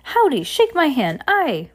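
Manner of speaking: high, lively sailor voice firing off jumbled orders; a cheerful, scatterbrained captain contradicting himself; scattered cheerful captain. Acted. Captain greeting the orphans.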